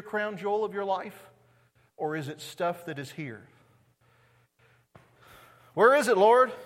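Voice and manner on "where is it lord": loud, high, pleading call to the Lord; urgent cry. Acted. Disciples asking the Lord, a loud pleading cry. Disciples' question voiced in sermon.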